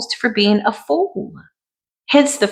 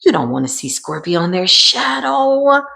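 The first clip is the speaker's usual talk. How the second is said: lower, slow warning; lightly voiced onlooker, low and unhurried; a hint of a scolding viewer, low and slow; cross watcher; 3 semitones lower, slower than usual. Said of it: "watching this video like".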